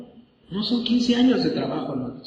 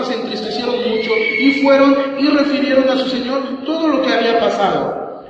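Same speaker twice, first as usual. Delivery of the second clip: usual speaking voice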